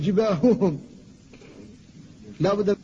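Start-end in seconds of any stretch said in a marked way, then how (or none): 0.0-0.8 جباههم with the ه pressed hard and tense; faulty جباههم, ه too forceful; over-tense ha. Shown as a demonstration. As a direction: demonstrate the overdone جباههم. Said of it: "الحذر من الشدة".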